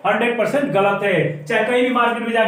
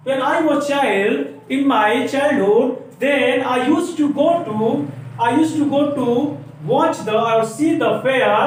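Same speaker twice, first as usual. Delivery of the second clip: very slow, each word spaced; slow example; much slower than usual. Shown as a demonstration. Teacher telling a childhood example very slowly. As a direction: say it slowly for the class to copy. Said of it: "example sentence read slowly".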